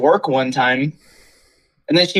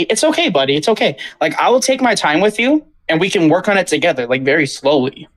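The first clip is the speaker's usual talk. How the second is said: kind teacher. Pretend. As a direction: soothe a struggling kid. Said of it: "If I was a teacher, I'd say".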